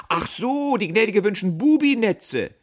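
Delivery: loud, high cry of recognition; sudden realization. A narrator's reading. Apprentice suddenly understanding the order, calling out high. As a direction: call it out as it dawns. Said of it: "Plötzlich rief er ahnungsvoll".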